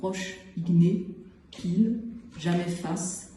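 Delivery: poem recital in short, separated phrases; poetry reading. Acted. Poet reads the poem that closes the collection, measured recital. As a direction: deliver each image on its own, pausing between.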